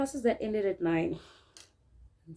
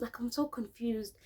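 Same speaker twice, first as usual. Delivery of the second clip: whispered, hushed confession; 6 dB quieter than usual. Real, not acted. Hiding in her room, whispering her confusion. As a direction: hush it as if scared to be overheard. Confused while getting noodles.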